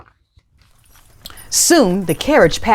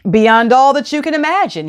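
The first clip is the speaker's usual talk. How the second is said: boastful crowing; 5 semitones higher than usual. Acted. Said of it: "he crowed".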